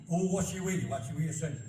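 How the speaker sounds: broad Yorkshire line; Barnsley dialect. Shown as a demonstration. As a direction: say it like the locals speak. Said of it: "just like how they speak".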